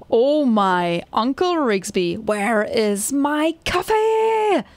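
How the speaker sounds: drawn-out, rising cry on the last words; boss demanding coffee. Acted. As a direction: stretch out the boss's demand. Voices game boss demanding coffee.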